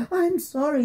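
high, frightened apology; spluttering dragon. A narrator's reading. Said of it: "he spluttered".

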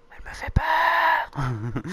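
high, loud, long-drawn squeal; scared squeal. Real, not acted. Player frightened by Yuri on screen, scared squeal. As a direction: stretch it into a high cry of fright.

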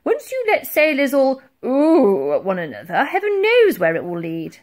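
loud, blustering admiral; thundering lecture. A narrator's reading. Admiral lectures the crew about oohing, thundering. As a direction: keep booming the reprimand. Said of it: "thundered the Admiral".

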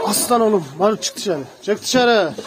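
loud call to the dogs to come out. Real, not acted. Calling his dogs out of the kennel, loud and cheerful. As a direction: call them out of the pen, loud.

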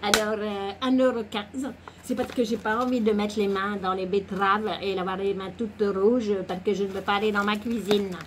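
put-on improvised comic French accent; mock accent from no real place; nonexistent accent. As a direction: keep up a silly invented accent. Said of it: "cet accent".

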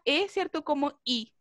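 la "E" se dice como "I". Shown as a demonstration. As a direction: cambia la E por I. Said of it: "naturalmente falan esta". ("E" pronunciada como "I")

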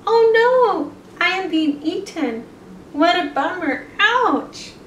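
hammed-up high cries of being eaten; mock dying bunny; fake distress. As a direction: play at being eaten, badly faked. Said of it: "The bunny is pretending".

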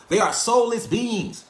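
each word of soulless beings slowed and leaned on, pitch up; slow and emphatic. Shown as a demonstration. Telling the viewers slowly, deliberately emphatic. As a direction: drag out They are soulless beings to make it land. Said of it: "I'm being honest".

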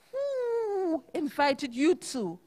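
put-on slow, crying old owl; a scared owl wailing slowly; frightened owl screech. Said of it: "screeched the frightened old owl".

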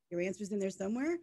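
mock-questioning, rising at the end; incredulous echo. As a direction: repeat it as a disbelieving question. Echoes the reply in disbelief.

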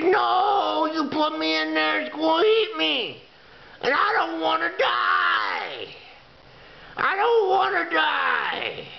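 a hammed-up frightened little coin, voice cracking into a mock sob; panicked pleading. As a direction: beg not to be put in, half crying for comic effect. The quarter begs for its life.

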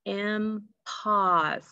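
"Impos" as two held beats, im... pos; syllable by syllable. Shown as a demonstration. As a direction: separate the syllables of "Impos" slowly. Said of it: "sound in the second syllable".

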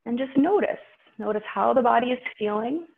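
slightly out of breath after poses. Real, not acted. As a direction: talk while still out of breath. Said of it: "I know I feel a little out of breath".

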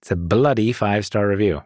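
mildly British demonstration; British accent. Shown as a demonstration. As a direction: show a light British accent. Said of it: "You know, like, a British accent".

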